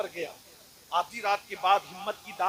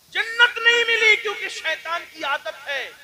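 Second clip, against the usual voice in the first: much higher and louder, slow; preaching cry; 13 semitones higher, 13 dB louder, slower than usual. Shown as a demonstration. Preacher repeating his point to the crowd, full-force cry. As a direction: cry the words out the second time. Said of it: "repeated softly before".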